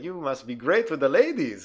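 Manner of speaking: put-on slow, leering Indian-accented driver; creepy driver. Driver flatters the teen, slow creepy accent. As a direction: drag it out like a creep sizing him up. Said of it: "he's like".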